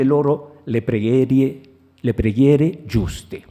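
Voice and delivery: measured, declaimed Italian prose; literary reading in Italian. Acted. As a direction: read the Italian passage aloud with deliberate phrasing. Reads Italian literary passage aloud.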